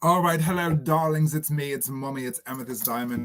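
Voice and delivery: a lightly put-on English accent, greeting the darlings; breezy mock-English hostess. Drag queen greets her viewers in a light English accent. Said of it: "I don't know why I'm English".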